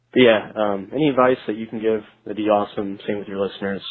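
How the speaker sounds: thin phone-line voice; radio show caller. Real, not acted. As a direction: sound like you're calling into a radio show.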